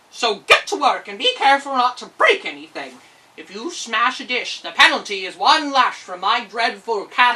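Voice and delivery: loud, bossy, threatening giant; gruff giant captor. Acted. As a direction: lord it over the girl, loud and menacing.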